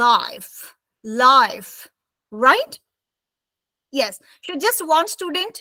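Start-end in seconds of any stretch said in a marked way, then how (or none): 0.1-1.7 slow, drawn-out long I in life; model pronunciation. Shown as a demonstration. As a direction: say life slowly with a full I. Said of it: "the first word is".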